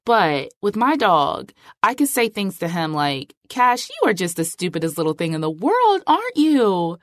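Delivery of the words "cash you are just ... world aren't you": put-on a light sing-song of baby talk to the dog, rising at the end; mild doting pet voice; sweet tone. Shown as a demonstration. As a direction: coo an insult sweetly to a pet. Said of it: "He's listening to how I'm saying it".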